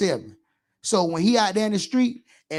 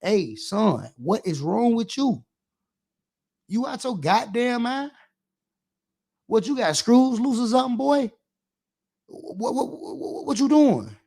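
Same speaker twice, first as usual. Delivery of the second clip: put-on scolding a kid; 3 semitones higher than usual. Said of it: "I am stepping down on their ass".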